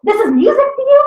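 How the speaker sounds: rising high and loud indignation; mock outraged mom. Mom scolding her teen over the burp tape, rising outrage. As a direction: scold like a shocked mother. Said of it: "She's like".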